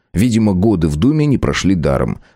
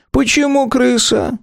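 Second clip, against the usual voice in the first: much higher, puzzled question; surprised; slower than usual. A narrator's reading. Philipp Petrovich puzzled by the nickname, surprised. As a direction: ask it in real astonishment. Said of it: "удивился Филипп Петрович".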